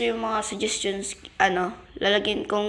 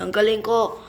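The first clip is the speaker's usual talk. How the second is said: loud, higher-pitched crowing; triumphant boast; 7 semitones higher, 7 dB louder than usual. Real, not acted. Player brags to viewers after saving everyone, triumphant shout. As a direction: shout it out, building in pitch and volume.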